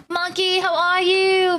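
high, put-on English greeting; British accent. Streamer greets Monkey in chat, put-on British accent. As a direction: call out brightly in a mock British accent. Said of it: "How is my English accent today?".

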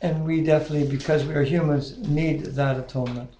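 earnest spoken prayer, steady and reverent; closing prayer. Real, not acted. Leader closes the group's study with a reverent prayer. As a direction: pray sincerely to close the study.

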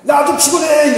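loud, high angry retort; husband yelling back at wife; shouting back. Retold or imitated. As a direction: snap back at full volume.

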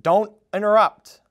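put-on an old snake telling off a kid; grumbling. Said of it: "Umbles grumbled".

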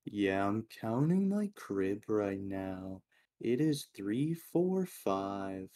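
mock narrator, slow start then lifted numbers; monotone YouTuber. Imitating a YouTuber counting crib, mock monotone. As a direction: imitate a droning video host, exaggerated. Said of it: "monotone, like".

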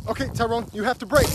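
ordinary talk

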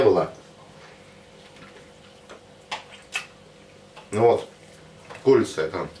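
talking between bites; chewing while talking. Real, not acted. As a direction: mouth partly full. Seen 1: Bites wrap before, hand at mouth, talks mid-chew during words.

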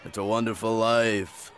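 slow, drawn-out movie star impression; Jimmy Stewart. Coach showing off to a boy, slow film-star impression. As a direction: stretch it out like an old film actor. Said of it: "wanna hear my Jimmy Stewart".

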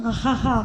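teasing ha-ha-ha laugh; mocking laugh. A narrator's reading. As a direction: laugh to tease grandma. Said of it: "గేలి చేసి నవ్వింది శ్రావణి". (గేలి చేస్తూ నవ్వు)

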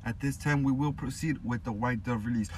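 measured announcer demo; slow professional announcing. Shown as a demonstration. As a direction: announce it slowly, every word pronounced. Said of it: "so you gotta slow down".

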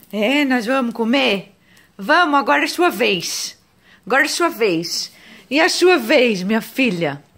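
a hint of baby talk to the daughter; pet-style baby talk. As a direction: coax her like a pet. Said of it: "Eu fico falando com a Rebeca assim".

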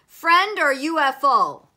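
loud, high shouted challenge; Neptune. A narrator's reading. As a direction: demand it like a sentry on watch. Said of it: "Neptune shouted".

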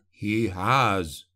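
a short spat retort. A narrator's reading. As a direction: bite the words off in contempt. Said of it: "Fullman spat".

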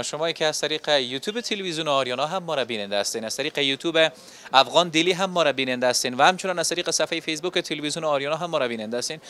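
upbeat TV reporter addressing viewers; presenter sign-off. Acted. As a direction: wrap up the report for the audience.

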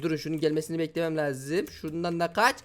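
normal talking voice

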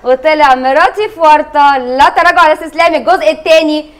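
slow, stretched-out announcer delivery; show presenter. Real, not acted. Host reopening the show and revealing the prank, presenter style. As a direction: welcome viewers back with drawn-out showy emphasis.

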